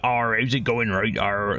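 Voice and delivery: a hint of a Cornish pirate accent, rolling the Arr; lightly voiced West Country pirate greeting; casual Cornish pirate accent, barely put on. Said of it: "that's a Cornish accent".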